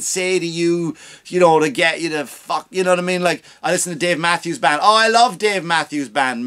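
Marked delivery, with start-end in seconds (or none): 4.8-6.4 mock eager guy.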